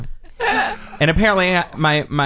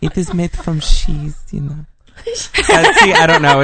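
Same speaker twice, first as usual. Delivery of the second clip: put-on Norwegian accent; 5 dB louder than usual. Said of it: "Norwegian accent".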